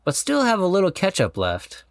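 sincere, measured vow reading; heartfelt vow reading. Real, not acted. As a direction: read the vows with tender sincerity. Reads his wedding vows aloud.

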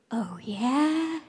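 unvoiced whisper of a jeering kid; whispered taunt. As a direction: hiss it like a spiteful schoolgirl. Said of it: "I just heard".

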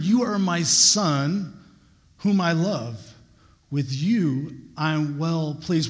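a slow, lifted proclamation; slow son blessing. Shown as a demonstration. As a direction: draw out each word, proclaiming it. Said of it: "How would you feel if you heard".

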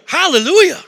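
high, loud, exuberant cry; retold burst of excitement; excited praise. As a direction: shout it out like a new convert. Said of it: "I'm getting kind of excited now".

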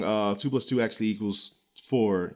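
level, matter-of-fact correction; calm correction. Pretend. Moderator calmly corrects a guest's nonsense. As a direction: set the record straight calmly. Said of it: "Don't just stand there".

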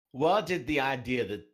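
aim for Aussie, land straight in Southern; failed Aussie accent. Acted. Reading a fan question, botched Aussie turned Southern accent. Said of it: "I went straight Southern".

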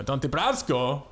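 slow, lightly Italian-accented name. Shown as a demonstration. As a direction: stretch the name into a touch of Italian. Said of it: "I made him more Italian".

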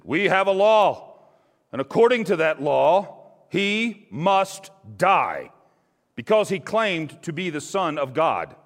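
high, loud, slow demand; insistent leaders. A narrator's reading. Jewish leaders insisting to Pilate, high, loud and slow. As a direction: lay down the law, slow and hard. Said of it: "The Jewish leaders insisted".

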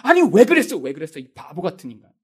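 mock exasperated self-reproach; angry at self. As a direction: berate yourself, then sink into disgust. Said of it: "자기를 보면 화가 나요".

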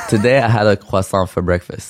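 croissant said kwa-sahn, French nasal ending; French croissant inside an English sentence; croissant French-style. Shown as a demonstration. Friend reads the typed croissant test sentence. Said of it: "can you read this for me".

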